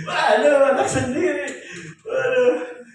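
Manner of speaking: loud, high-pitched "oh no" reaction; dismayed exclamation. Retold or imitated. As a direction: cry out in retold shock. Retold shock at seeing own children. (seruan kaget, keras dan tinggi)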